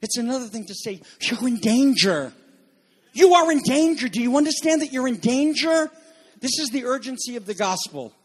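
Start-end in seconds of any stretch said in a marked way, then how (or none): 3.1-5.9 urgent loud warning. Real, not acted. Preacher warns the congregation.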